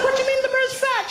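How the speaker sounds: high, fast disbelieving question; incredulous. Retold or imitated. Comedian to British woman about the mirror, high fast disbelief. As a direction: blurt it out in disbelief.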